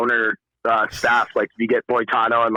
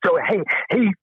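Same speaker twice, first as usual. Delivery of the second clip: much higher, rising excitement like a pep rally; hyped-up cheer; 11 semitones higher than usual. Pretend. Host hyping up telethoners, high excited cheer. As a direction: pump up the fellow telethoners while jogging. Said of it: "I'm jogging on the spot right now".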